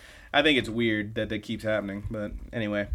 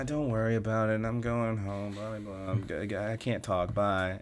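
softer, dismissive phone mumble; blowing her off; 5 dB quieter than usual. Retold or imitated. Daughter getting Mom off the phone, mildly dismissive. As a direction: lightly imitate brushing off a caller, volume dropping. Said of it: "And just blows her off".

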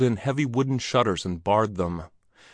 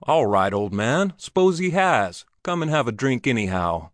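jocular; 3 semitones higher than usual. Acted. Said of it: "innocent and jocular".

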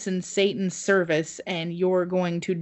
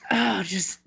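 high, wailing mock sermon; fire and brimstone preacher; 7 semitones higher than usual. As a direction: wail it like an overwrought preacher. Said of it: "And he's like".

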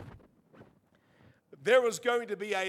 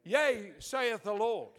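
retold prophecy; 3 semitones higher, 5 dB louder, slower than usual. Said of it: "I go".

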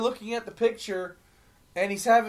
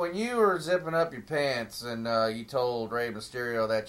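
lightly voiced podcast host, low and flat; a bad, understated Conrad impression; Conrad Thompson impression; 5 semitones lower than usual. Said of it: "That is the worst Conrad Thompson impersonation".

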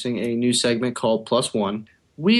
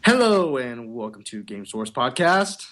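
big hello, then slow announcer read; slower than usual. Shown as a demonstration. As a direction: announce the show like a radio host. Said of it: "There's my announcer voice".

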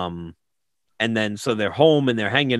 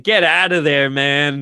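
urging the character; 3 semitones higher, 5 dB louder than usual. Retold or imitated. Voicing own alarm at the movie.

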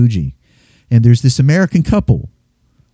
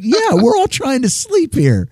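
mock exasperated; 11 semitones higher than usual. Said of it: "It's like".

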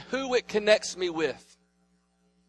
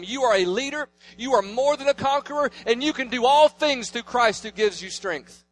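declaring blessing; 4 semitones higher, 3 dB louder than usual. Retold or imitated. Father declaring over his kids.

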